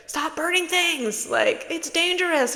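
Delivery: high mock parent scolding; mock parent telling the kid off. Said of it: "your parents would be like".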